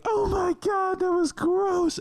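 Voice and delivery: high, loud shriek of disgust; disgusted mom shriek. Retold or imitated. Mom at the movie, high disgusted shriek. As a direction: squeal it like a grossed-out mom. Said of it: "She's like".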